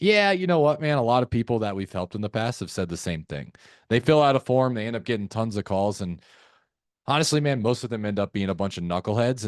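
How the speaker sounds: chummy, knowing agreement; playful tone. Shown as a demonstration. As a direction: side with them like a buddy. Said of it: "that's our playful tone".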